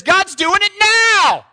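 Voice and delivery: high, loud, slow shout; bold proclamation. Retold or imitated. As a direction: proclaim it to the whole synagogue, triumphant. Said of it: "he says".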